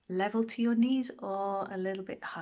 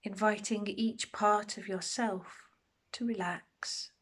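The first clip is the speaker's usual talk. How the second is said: unhurried meditation guide, long pauses between phrases; guided meditation. Acted. Meditation teacher settling listeners into a body scan, calm guided delivery. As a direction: guide them gently through a body scan, pausing often.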